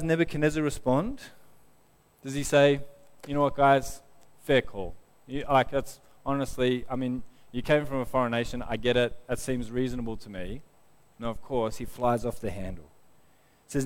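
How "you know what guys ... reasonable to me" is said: mildly easygoing, hesitant concession; mock reasonableness. Imagined king excusing the three foreigners, mock mild. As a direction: pretend to take it in stride, casually.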